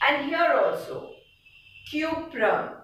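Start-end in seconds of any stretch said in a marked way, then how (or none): 1.9-2.8 cuprum with a long YOO in the first syllable; emphasized U. Shown as a demonstration. Teacher showing why copper is C U, emphasized U. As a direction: lean on the U of cuprum. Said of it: "it is the U which you are emphasizing on".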